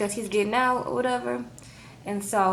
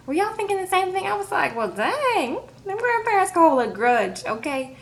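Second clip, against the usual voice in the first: excited disbelief; 10 semitones higher than usual. Real, not acted. Exclaiming to viewers, high pitched.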